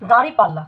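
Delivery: দাঁড়িপাল্লা with a nasal first vowel; careful model দাঁড়িপাল্লা, nasalised দাঁ; nasalised দাঁড়ি in দাঁড়িপাল্লা. Shown as a demonstration. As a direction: say দাঁড়িপাল্লা, sending দাঁ through the nose. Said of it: "এটির উচ্চারণ হচ্ছে".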